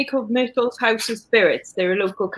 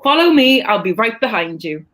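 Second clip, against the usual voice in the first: Welsh accent; 3 semitones higher, 3 dB louder than usual. Shown as a demonstration. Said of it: "try to do one".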